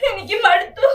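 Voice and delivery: crying through broken words; despairing sobs. Acted. Wife alone after abuse, sobbing in despair.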